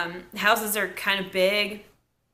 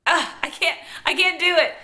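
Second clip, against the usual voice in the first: imitating Joey; 7 semitones higher, 4 dB louder than usual. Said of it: "He looks at Stephanie and goes".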